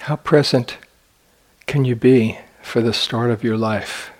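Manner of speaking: unhurried phrases with long, spacious pauses; guided meditation. Acted. Meditation teacher guiding sitters to imagine being born, in guided meditation delivery. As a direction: lead them gently, leaving silence between phrases.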